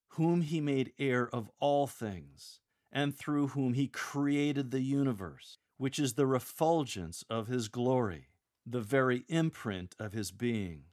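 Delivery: strong, energetic reading with punched key words; powerful, joyful proclamation. Shown as a demonstration. Lector glorifying Jesus Christ, with power and joy. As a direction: proclaim it boldly, with wonder. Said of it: "Gradually build a crescendo".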